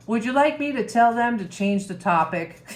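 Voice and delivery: real tearful laugh; laughing through tears. Real, not acted. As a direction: choke up while laughing. Moved retelling, laughing through tears.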